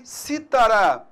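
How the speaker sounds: citará said as cítara, stressed on CI; stress on first syllable. Shown as a demonstration. Teacher names the instrument, citará stressed on the first syllable CI. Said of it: "é um instrumento musical".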